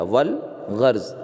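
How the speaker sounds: "والغرض" slowly as wal... gharz; silent alif, sounded lam. Shown as a demonstration. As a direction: stretch "والغرض" in two slow parts, L sounded. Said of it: "کیا بولیں گے؟".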